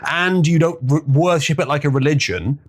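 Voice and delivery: insistent arguing. Retold or imitated. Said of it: "I'm arguing".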